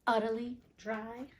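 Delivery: utterly stressed, rising; punning question. Shown as a demonstration. Reader points out the pun, Utterly dry stressed and rising. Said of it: "You got that?".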